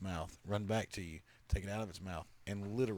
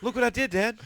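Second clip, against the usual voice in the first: much higher, squeaky little-critter voice; proud cat voice; 12 semitones higher, 8 dB louder than usual. Pretend. Cat bragging to its owner about a dead rat, high and proud. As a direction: play the cat showing off its kill.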